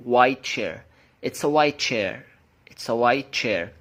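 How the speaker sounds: WHITE as "why", then CHAIR; no T in WHITE, only the CH of CHAIR; linked, T dropped. Shown as a demonstration. Teacher modelling for learners, WHITE CHAIR linked as "why chair". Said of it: "فأنا هنطقها واي".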